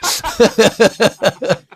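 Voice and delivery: high loud laughing shout. Real, not acted. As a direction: laugh it off loudly. Laughing at himself.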